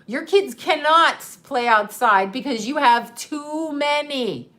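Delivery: mock officious ruling, stretched at the end; imitated bossy scolding. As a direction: lay down the law as the nosy neighbor. Voices troll scolding the mother.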